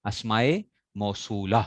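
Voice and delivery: "اسماء" as asmaye, pause, then "موصولہ"; model pronunciation. Shown as a demonstration. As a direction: model "اسماء" with opening a, word by word. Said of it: "یہ جمع ہے".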